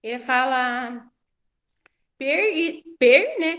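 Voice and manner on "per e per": "per" said alone, raised and emphatic; isolated syllable. Retold or imitated. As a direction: break off "per" as a separate first syllable. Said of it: "que é a primeira sílaba".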